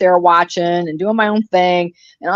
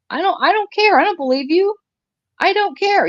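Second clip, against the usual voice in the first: heated retort; 11 semitones higher than usual. Acted. Heated rant at a hater.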